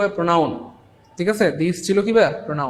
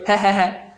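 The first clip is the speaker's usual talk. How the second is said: mock "heh-heh-heh" laugh; demonstrated own laugh; 3 semitones higher than usual. Shown as a demonstration. Teacher showing students his own laugh, demonstrated heh-heh laugh. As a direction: show off your laugh in separate, put-on bursts. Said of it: "আমার হাসি হইলো".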